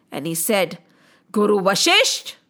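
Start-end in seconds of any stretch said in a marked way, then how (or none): 1.3-2.3 low, deliberate threat; angry vow. Acted. Defeated king challenges the sage, angry vow. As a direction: lower the voice and vow it firmly. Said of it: "Why are you so angry?".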